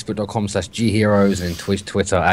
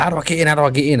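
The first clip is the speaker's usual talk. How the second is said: higher, whiny pleading repeated; whinging; 5 semitones higher, faster than usual. Retold or imitated. Stranger whining over voice chat about the gate, higher whine. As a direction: whine it like a stuck kid at the gate. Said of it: "he was whinging".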